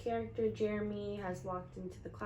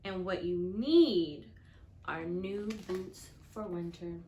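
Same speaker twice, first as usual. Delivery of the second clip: slow, louder, firm grandma voice; 3 semitones lower, 5 dB louder, slower than usual. Acted. Grandma telling the boy what he really needs, lightly voiced firm grandma. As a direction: lay down the law gently but firmly.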